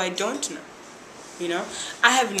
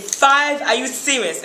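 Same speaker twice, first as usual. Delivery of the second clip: retold disbelief; 4 semitones higher, 6 dB louder, slower than usual. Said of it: "I said".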